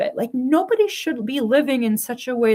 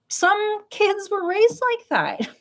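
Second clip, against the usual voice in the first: laughing; 12 semitones higher, slower than usual. Real, not acted. Laughing after yell story.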